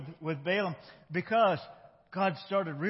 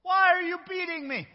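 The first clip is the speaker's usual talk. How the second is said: high, louder put-on donkey voice; talking donkey; 13 semitones higher, 8 dB louder than usual. Donkey protesting to Balaam who beats him, high put-on voice. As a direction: plead as the hurt donkey. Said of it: "the donkey spoke".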